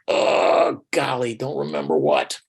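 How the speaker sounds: mild retold surprise. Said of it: "And I was like".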